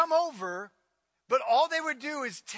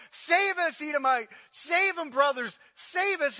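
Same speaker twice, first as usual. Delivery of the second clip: acted plea for help; 3 semitones higher than usual. Preacher voicing Judah's refugees begging Edom, pleading. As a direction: call out like fleeing refugees, lightly acted.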